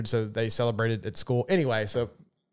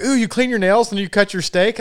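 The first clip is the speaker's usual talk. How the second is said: high, louder mock squeamish voice; mock disgust, pitched up; imitated objector; 8 semitones higher, 5 dB louder than usual. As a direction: mimic a scandalized busybody. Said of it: "And they're like".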